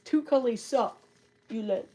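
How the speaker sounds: says "Two cuddly succulents" with a laugh; a giggly retry of "Two cuddly succulents". Real, not acted. Laughs at her own stumble.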